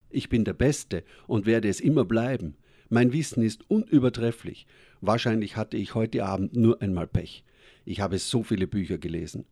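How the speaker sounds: a touch of boastful pride; self-assured. Acted. Proud speaker defends himself to the girl, mildly boastful. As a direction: puff yourself up, mildly. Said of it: "entgegnete ich selbstbewusst".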